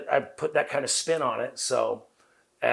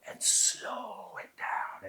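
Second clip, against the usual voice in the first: slow it down; 11 semitones higher, 6 dB quieter, much slower than usual. Retold or imitated. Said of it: "Take everything that you're doing".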